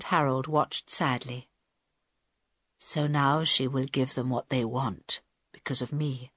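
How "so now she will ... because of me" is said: low, soft and subdued; quietly. A narrator's reading. Carl watches the freed hijacker and blames himself, quietly. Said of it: "said Carl quietly".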